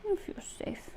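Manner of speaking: soft unvoiced whisper; whispered reassurance. Real, not acted. Reassuring the nervous rooster in her arms, in a whisper. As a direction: breathe it softly to calm him.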